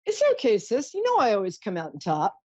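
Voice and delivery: a hint of a cheeky younger brother reassuring his sister; playful brother voice. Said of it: "he's like".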